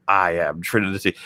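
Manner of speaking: "I am Trinity" said slowly and deliberately; drawn-out, lightly mocking "I am Trinity"; mock name declaration. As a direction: imitate a stilted big reveal, spacing out "I am Trinity". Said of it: "Trinity being like".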